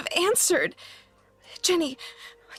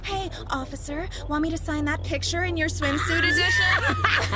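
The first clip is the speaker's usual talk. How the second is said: flirty mock. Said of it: "pout your lips and say".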